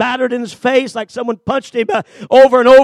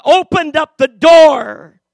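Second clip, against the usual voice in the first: preaching shout; 3 semitones higher, 6 dB louder, slower than usual. Acted. Preacher climaxing a testimony story.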